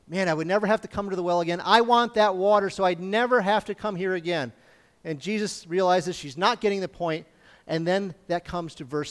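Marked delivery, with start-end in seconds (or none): 0.1-4.5 rushing, eager retelling of her words; the woman at the well excitedly wanting the water. Retold or imitated. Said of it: "this woman gets all excited and says".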